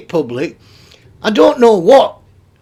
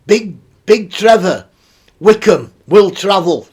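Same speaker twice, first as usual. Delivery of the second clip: louder, slow mock announcement; mocking read; 5 dB louder than usual. Mocking a weird email to the audience, louder and slow. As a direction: ham up the personal ad.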